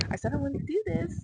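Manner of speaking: high-pitched, laugh breaking into the words; nervous laugh. Real, not acted. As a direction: laugh helplessly while admitting stress. Freaking out, laughing through it.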